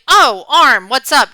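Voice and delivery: a light, casual oh of recognition; just a little surprised to see her; mild surprise. Shown as a demonstration. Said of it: "You'd be a little bit surprised".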